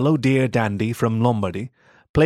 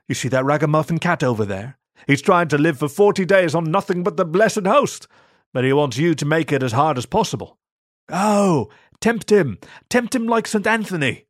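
mocking monk voice; 6 semitones higher than usual.

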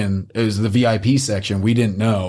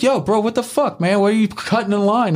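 high, mock-outraged drunk protest; imitating a tipsy buddy calling out a line-cutter; drunk indignant yell; 10 semitones higher than usual. Buddy confronting the line-cutter, high mock outrage. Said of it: "he's just like".

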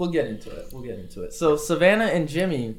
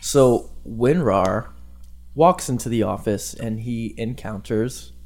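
ASMR narrator voice. Acted. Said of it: "Do an A S M R narrator voice".

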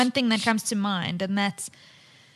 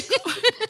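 bright high giggle; real high-pitched laugh; 11 semitones higher than usual. Real, not acted. Co-host laughs at tears.

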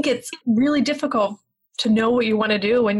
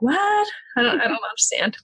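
puzzled what. Retold or imitated. Parent hearing the kids' odd words, baffled surprise. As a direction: react like you can't understand a word. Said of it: "you're like".

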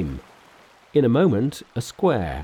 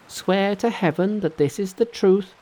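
brisk Monkey King, pitched high; cocky, impatient hero cutting in; 10 semitones higher than usual. Acted. Monkey demands oath.

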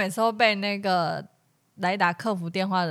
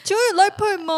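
high, far put-on voice, much higher and louder; mock customer; 10 semitones higher, 5 dB louder, faster than usual. Customer asks the restaurant about Line Pay, in a high put-on voice. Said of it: "你就可以跟他说".

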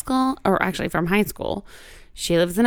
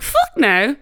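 imitated British lilt, higher pitched; British accent; 4 semitones higher than usual. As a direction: mimic a British-sounding refusal. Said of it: "sounded British".

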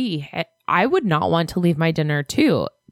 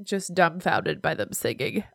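talking with nose held shut; pinching nose; 8 dB quieter than usual. Real, not acted. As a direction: hold your nose while talking. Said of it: "I'm holding my nose, listeners".

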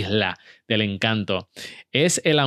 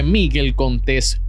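MIGUEL CONTÉS drawn out slowly, stressed at the accented É; emphasis on surname; 2 semitones higher, 4 dB louder, slower than usual. Real, not acted. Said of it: "por qué yo hago tanto énfasis en el apellido".

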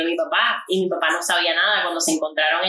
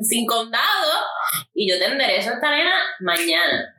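brisk, confident officer; lightly voiced stern colonel; 3 semitones higher than usual. Colonel telling dad the girl needs discipline, brisk. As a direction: lay down the law like a colonel. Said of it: "Y el coronel le dijo".

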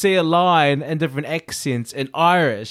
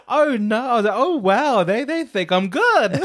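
higher-pitched, giddy surprise; excited disbelief; 6 semitones higher than usual. Retold or imitated. Auditionee thinks they rate their acting, excited disbelief. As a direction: retell it thrilled, pitch lifted. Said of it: "So I was really excited".

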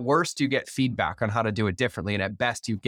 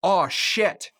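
frustrated outburst; 7 semitones higher than usual. Retold or imitated. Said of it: "she got frustrated".

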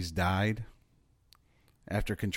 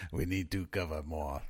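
low, quiet Russian put-on; Russian accent; 4 semitones lower, 6 dB quieter than usual. Host joking about covering Russia, low Russian accent. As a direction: keep up a deep mock-Russian accent. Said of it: "Your Russian accent's pretty good".

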